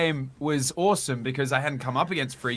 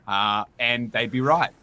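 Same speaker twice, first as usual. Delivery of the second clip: mock smug; 2 semitones lower, slower than usual. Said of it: "some might like to say that I'm a messiah".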